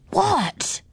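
high-pitched, questioning what; puzzled. A narrator's reading. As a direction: ask it high, not understanding. Puzzled reply to being hushed.

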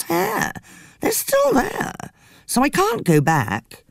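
lightly voiced dramatic woman; a touch of theatrical lament; Frida's voice. Frida speaking.

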